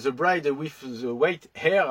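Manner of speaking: slow, careful English accent on a film title; French speaker trying an English accent. Real, not acted. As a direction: say the title the English way, taking your time. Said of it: "avec mon accent anglais".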